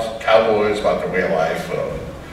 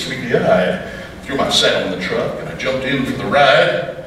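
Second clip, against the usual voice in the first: rhythmic storytelling poem; poem recitation. Acted. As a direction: recite it like a campfire poet. Recites second cowboy poem.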